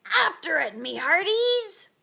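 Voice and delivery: rally the crew like a captain; booming captain's order; commanding. A narrator's reading. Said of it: "Braidbeard commanded".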